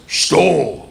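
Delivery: put-on curt Russian-accented order; Russian gangster. Russian gangster to a student at his door, curt Russian accent. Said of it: "real Russian gangster".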